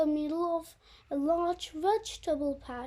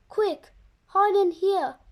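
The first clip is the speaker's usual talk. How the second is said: urgent; 3 semitones higher, 7 dB louder than usual. Acted. Rabbit hides from the farmer.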